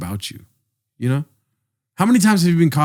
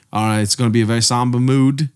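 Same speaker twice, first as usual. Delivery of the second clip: understated mock Australian; Australian accent. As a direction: imitate an Australian setting a sober tone. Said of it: "I don't know how to do an Australian accent".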